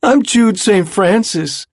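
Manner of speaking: high, loud slurred mocking voice; cruel slurred parody. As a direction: slur it like a cruel mimic. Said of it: "he slurred".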